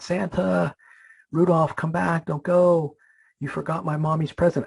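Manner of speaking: mild mock yell, pitched high; retold calling out. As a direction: call after someone leaving, without full volume. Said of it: "he yells out".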